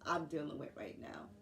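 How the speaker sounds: soft, tearful whisper about her fears; near tears. Real, not acted. Nurse worried about losing income, softly tearful whisper. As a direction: let the worry break the voice into a whisper. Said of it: "I'm gonna try not to cry".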